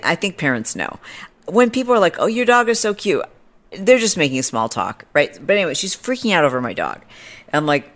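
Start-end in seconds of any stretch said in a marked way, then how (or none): 2.2-3.2 high, insincere coo; mock gushing. People making small talk about her dog, high mock gush. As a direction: imitate polite fawning over a pet.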